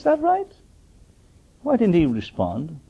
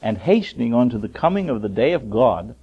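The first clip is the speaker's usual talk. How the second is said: measured, declaiming Bible reading; scripture reading; 3 dB louder than usual. Acted. Preacher reading scripture to his congregation, declaiming. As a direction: read the verse out to the church.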